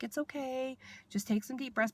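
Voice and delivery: gently coax, as a retold kind nurse; imitated soothing nurse. Kind nurse calming a waking patient, soothing imitation.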